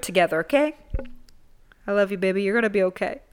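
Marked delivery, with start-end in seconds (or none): 1.8-3.2 self-comfort. Real, not acted. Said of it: "That was for myself".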